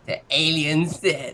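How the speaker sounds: slow words through laughter; laughing. Real, not acted. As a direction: laugh while saying it. Laughing through his answer.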